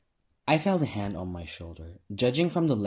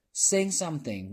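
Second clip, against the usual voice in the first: high, louder crowd shout; heckling shout; 8 semitones higher, 5 dB louder than usual. A narrator's reading. Heckler in the crowd to the singer, shouting. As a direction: shout it up at the stage. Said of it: "one of the butchers shouted".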